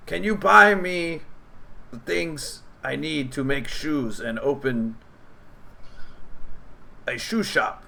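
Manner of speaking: a goblin shyly revealing his calling; hopeful goblin. Acted. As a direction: goblin telling heroes about his shoe shop dream. Goblin shares shoe dream.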